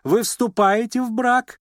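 lady confronting the suitor; blunt demand. A narrator's reading. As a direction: confront him. Blunt interrogation.

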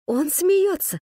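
ordinary delivery, nothing marked

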